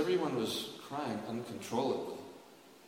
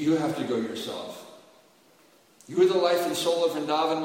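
loud, high, pleading lament; lamenting Uddhava; 4 semitones higher, 8 dB louder than usual. Acted. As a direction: plead with Krishna in a raised, grieving voice. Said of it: "And then Uddhava began crying".

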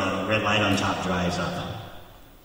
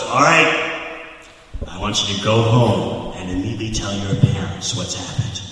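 louder stern instruction; mock cop order; 5 dB louder than usual. Railroad cop sending the boys home, loud mock order.

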